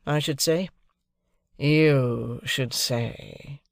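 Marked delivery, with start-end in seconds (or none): 1.6-3.6 very slow, drawn sneer with YOU stressed; mocking echo. Drummle repeating Pip's words, slow sneer. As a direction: drawl the echo back mockingly. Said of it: "repeated Drummle".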